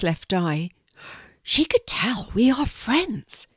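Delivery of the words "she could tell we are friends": high, slow, delighted little voice; happy. A narrator's reading. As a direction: marvel happily, stretching the words. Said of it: "he said happily".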